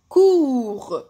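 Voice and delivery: "cours" loud and stretched, ending on R; silent final T. Shown as a demonstration. Teacher demonstrating a silent letter, "cours" without its T. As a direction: hold "cours" and leave off the T. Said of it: "حرف صامت".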